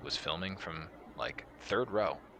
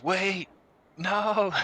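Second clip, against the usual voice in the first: high, loud cry of alarm; imitated fan's drawn-out shout; retold yelling; 10 dB louder than usual. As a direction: yell it like a panicking fan. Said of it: "Guy's just yelling defense and goes".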